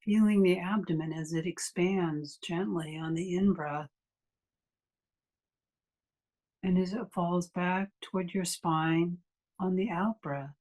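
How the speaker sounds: unhurried meditation guide with long pauses; guided meditation. Acted. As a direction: ease listeners into stillness, leaving long silences between phrases.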